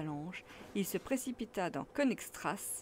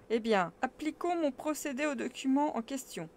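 eager; 6 semitones higher, 4 dB louder than usual. Acted. Uncle eager to start.

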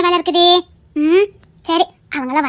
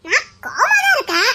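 mock anger through laughter; 6 semitones higher, slower than usual. Wife half-laughing, pretending anger.

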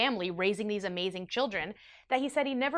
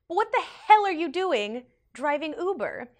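puzzled question; 7 semitones higher, 3 dB louder than usual. Retold or imitated. Politer retake of the question.

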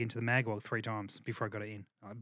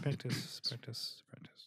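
mock mantra dying away into a whisper; fading to a whisper; 11 dB quieter, slower than usual. Host chanting practice to the panel, fading to a whisper. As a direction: chant it softer and softer until it's only breath.

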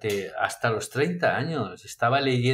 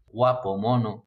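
ordinary talk

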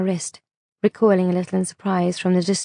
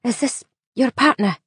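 called from afar; 5 semitones higher than usual. A narrator's reading. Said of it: "she called from what sounded like quite a long way away".

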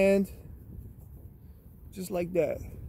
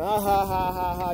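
flat, spelled-out imitation laugh; a hint of a taunting ha ha; mock laugh. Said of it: "You over there laughing".

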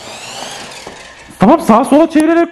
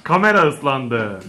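softer, lower and slow, half to himself; quiet repeat; 10 semitones lower, 6 dB quieter, slower than usual. Real, not acted. Dad repeating to himself about the wet camera, quiet. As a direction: mutter it again, deflated.

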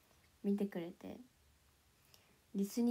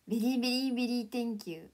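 fast, louder very very very; playful overdone thanks; 5 dB louder, faster than usual. Pretend. Testing English emphasis on chat, playful rattling. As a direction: rattle it off as a joke. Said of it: "とか".

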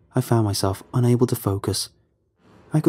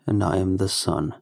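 slow, drawn-out creepy greeting; lightly voiced uncanny figure, slow; eerie Sundance voice; 3 semitones lower than usual. Uncanny figure greeting the boy, slow and eerie.

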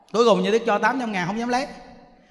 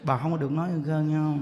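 lower, softer mock-stern caution; stern admonishing; 8 semitones lower, 6 dB quieter than usual. Monk forbids woman to spread the loss, retold stern admonishing. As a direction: imitate a grave teacher's hushed warning. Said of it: "có khi mà nó nghiêm".

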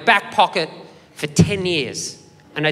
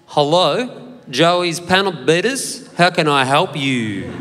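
slow phone greeting; slower than usual. Retold or imitated. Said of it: "answered the phone like this".

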